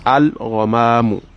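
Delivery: slow Al-Ghamamu with the l fully sounded; clear lam. Shown as a demonstration. Teacher showing students the manifest lam. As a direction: keep the l of Al-Ghamamu distinct, slowly. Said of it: "the Lamun comes out clearly and manifestly".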